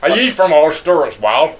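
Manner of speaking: playful put-on Ulster accent. Asking friend if he's from Ulster, Ulster accent. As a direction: ask it in a Northern Irish accent. Game of Northern Irish accents.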